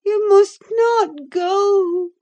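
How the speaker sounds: high, loud, drawn-out cry; cling to him with your voice; frantic, slow wail of refusal; desperate refusal. A narrator's reading. Catherine clings, refusing to let go.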